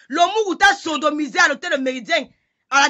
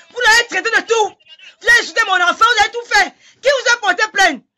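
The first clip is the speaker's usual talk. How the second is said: outraged shout; 5 semitones higher than usual. Real, not acted. Defending her child against a rival, crying angry shout. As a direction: cry out the accusations, voice straining.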